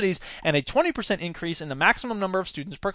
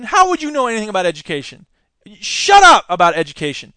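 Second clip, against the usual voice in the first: louder and blunter, telling him off; louder retort; 5 dB louder than usual. Real, not acted. Host telling Mitt Romney off, louder. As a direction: snap the order at him.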